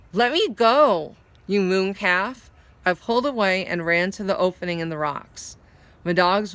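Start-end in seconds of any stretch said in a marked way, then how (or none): 0.1-2.5 loud, slow and furious; angry. Acted. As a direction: snap at him to let go. Molly pulls away angrily.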